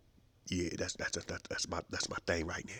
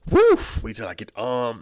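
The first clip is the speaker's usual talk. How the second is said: ordinary delivery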